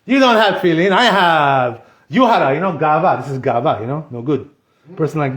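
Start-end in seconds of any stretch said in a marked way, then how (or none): 0.1-1.8 mock show-off. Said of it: "he's gonna look like, you know, a big shot".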